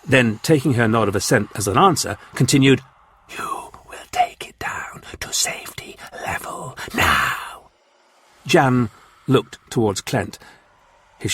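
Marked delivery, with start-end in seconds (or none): 3.3-7.7 slow, hissed, menacing whisper; whispering Martian warlord. Acted. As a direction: breathe the demand like a cold threat. Martian command.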